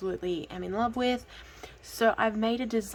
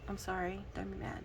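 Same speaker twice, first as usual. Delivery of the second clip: much softer, sheepish plea; soft apology; 12 dB quieter than usual. Real, not acted. Apologizing to a friend for laughing at her nickname, softly. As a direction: drop the volume right down to apologize.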